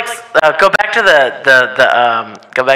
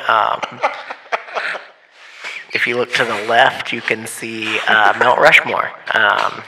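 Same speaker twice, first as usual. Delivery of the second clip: airline pilot announcement. Pretend. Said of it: "Do your pilot impression".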